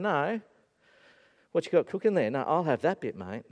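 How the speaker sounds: half-hearted attempt at another man's accent; lightly attempted accent of a pushy mate; Kieran. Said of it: "I couldn't do a Kieran accent".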